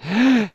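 sharp, high gasp; startled gasp. Real, not acted. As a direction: suck in a quick, frightened breath. Startled in the game.

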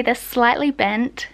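lip held down by finger; talking with lip pulled down. Real, not acted. Seen 0: Finger presses lower lip down showing braces throughout labelled words.

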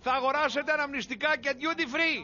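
flight attendant addressing the passengers; formal, measured in-flight announcer delivery; cabin announcement. Acted. New stewardess informing passengers of cutbacks, officious announcement.

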